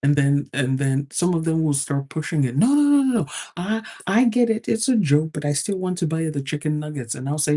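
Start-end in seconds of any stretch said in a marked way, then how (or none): 2.6-7.1 higher, pushy mock insistence; insistent guy. Customers pushing to buy the chicken nuggets, insistent. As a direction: keep pushing the offer, a touch hammed-up.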